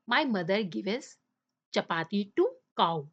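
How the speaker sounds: "my mother gives" read slowly with the "s" on "gives" put right; careful slow reading of "gives" after the slip; slow corrected reading. Shown as a demonstration. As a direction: dictate "gives" properly, very slowly, for children. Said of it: "um, sorry".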